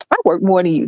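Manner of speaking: low-key joking retort; joking, non-combative. Shown as a demonstration. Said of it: "Does that sound like I wanna fight you?".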